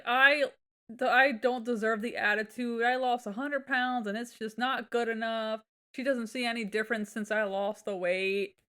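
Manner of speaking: whiny husband feeling sorry for himself, lightly mocked; mock whiny complaint. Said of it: "He's like".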